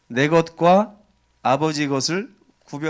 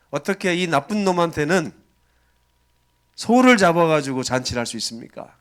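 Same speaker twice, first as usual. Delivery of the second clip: raised, indignant complaint to his father; older son confronting his father, voice raised in grievance; angry protest. Acted. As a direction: argue back at the father, hurt and angry. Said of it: "아버지한테 따지는 거예요".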